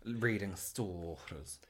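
high, slow, mock-formal advice; mock posh advice. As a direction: speak down to him grandly. Teasing brother in mock voice.

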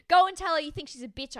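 high, loud mock challenge; retold loud taunt. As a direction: throw it out as a hammed-up dare. Retold dare thrown in a quarrel.

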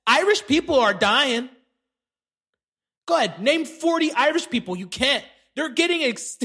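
loose, goofy comedian riff; Theo Von impression. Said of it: "That's my Theo Von impression".

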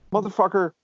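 mock-furious inner rant; imagined cussing out a cop. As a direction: vent at the cop in your head. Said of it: "all I could think was".

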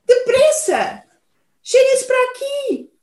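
high, loud urgent call. Acted. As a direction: call them over urgently. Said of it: "Chamou o urso".

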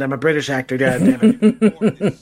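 slow American accent with a laugh. Shown as a demonstration. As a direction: put on a broad American accent. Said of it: "This is my American accent".

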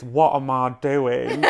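put-on slow, lightly done Kent accent; a hint of a Kent accent, laughing. Reading the reporter's title in a light Kent accent. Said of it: "in a Kent accent".

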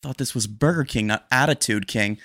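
mock-indignant retort; imagined snarky comeback; sassy comeback. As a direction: throw a sarcastic jab. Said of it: "in my head, I went like this".

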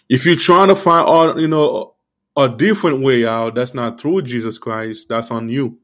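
talking around a wad of gum; chewing gum. Real, not acted. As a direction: speak with gum in your mouth. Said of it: "I have, like, gum in my mouth".

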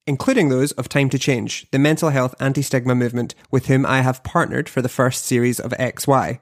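polished presenter read, steady and clear; podcast host intro. Acted.

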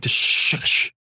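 a breathy voiceless hush; husband hushing his wife in the van, in a whisper; whispered shush. Retold or imitated. Shush her in a whisper.

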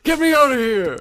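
very high, desperate little voice; squeaky pleading voice. Pretend. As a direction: beg to be rescued in a tiny voice. William's plea to escape.

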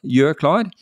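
mildly called-out order; repeated command. Retold or imitated. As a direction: call the student to get ready.

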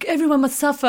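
high mock-dramatic decree; lightly hammed-up suffering; mock solemn motto. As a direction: declare it like a grave commandment, tongue in cheek. Mocking schoolgirl motto.

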